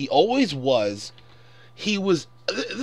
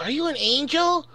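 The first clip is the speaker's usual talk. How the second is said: mock whiny kid; 10 semitones higher than usual. Mocking young Anakin's line.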